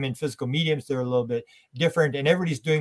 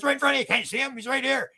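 scared preacher; 11 semitones higher, faster than usual. Retold or imitated. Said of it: "And he says".

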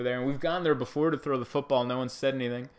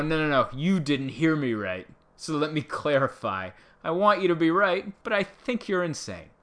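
mock clarifier; 5 semitones higher, 4 dB louder than usual. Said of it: "It's essentially what I'm saying".

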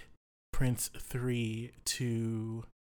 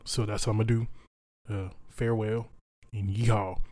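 in-character bluster; 3 dB louder, faster than usual. Acted. Cleo speaks in character to prince.

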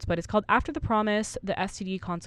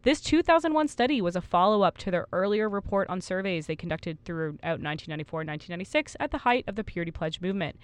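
newscaster voice. Real, not acted. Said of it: "I sound like a newscaster".

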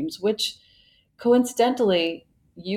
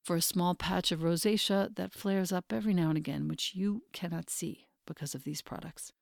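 measured, softer host-read advertisement; sponsor ad read; 7 dB quieter than usual. Real, not acted. Host recommending skincare to her community, measured ad read. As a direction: read a personal endorsement with deliberate pauses.

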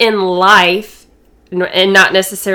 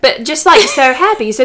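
giggling; 5 semitones higher, 4 dB louder than usual. Real, not acted. Resuming story while giggling.

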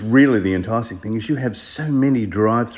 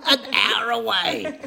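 laughing; 9 semitones higher than usual. Real, not acted. Host laughs at the answer.

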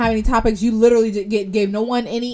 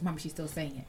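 put-on child tattling; 6 semitones lower, 18 dB quieter than usual. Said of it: "She's like".

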